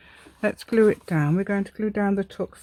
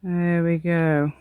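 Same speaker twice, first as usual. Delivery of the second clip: posh voice; much slower than usual. Acted. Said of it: "doing all sorts of lady posh".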